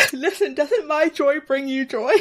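laughing. Real, not acted. Laughing through her question.

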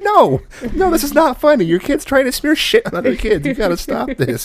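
high, loud mock scolding; outraged dad. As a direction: imitate a father at the end of his patience. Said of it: "My dad's like".

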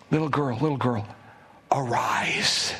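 put-on hushed, gentle call to a child; tender whisper. Preacher voices Jesus waking the girl in a whisper.

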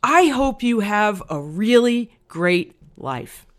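slow, deliberate retold well-wishing; earnest blessing. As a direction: imitate a grateful veteran, measured and heartfelt. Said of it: "he looked me right in the eye".

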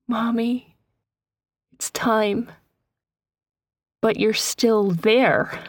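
put-on a young girl begging her mother to do it; pleading daughter.

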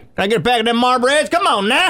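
1 mock redneck customer. Hick voice ordering smokes.

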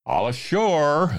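high, drawn-out sailors' call; shouted. A narrator's reading. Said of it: "the men shouted".

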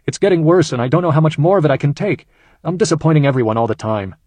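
a father barely holding it together, pushing through; choked up. Acted. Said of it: "David went on in a choked voice".

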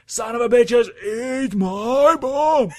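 high, loud, rushed imitation; fast movie line imitation. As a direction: blurt it like the movie character. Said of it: "he said it that fast too".

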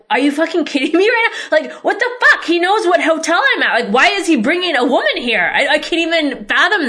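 shrill, incredulous rant at what you're seeing; exasperated outburst. Retold or imitated. Seeing the ghoster's lookalike with a woman, high incredulous outburst.

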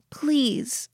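small high-pitched please; fragile plea. Acted. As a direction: beg as if close to breaking. Lillian begs, near breaking.

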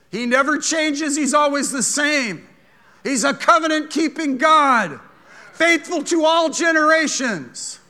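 loud, high preaching; full-force preaching. Acted. Preacher denouncing the devil to the church, loud and high. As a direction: preach it hard.

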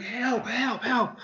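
high mock cries for help; screaming for help. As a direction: squeal help like a man being dragged off. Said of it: "there's this screaming".

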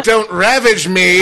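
very slow, laughing through it; laughing repeat. Retold or imitated. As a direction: repeat it while cracking up. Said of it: "I said".

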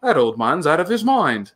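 mock British delivery of the line; British accent. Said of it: "in a very British accent".

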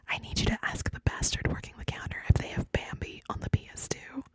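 menacing whisper right in the ear; creepy whisper. Acted. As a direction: hiss threats into the listener's ear. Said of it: "cut all of that".

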